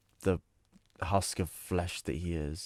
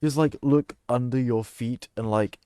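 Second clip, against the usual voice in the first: laughing; 6 semitones higher, 8 dB louder than usual. Real, not acted. Cracks up imagining branded bones.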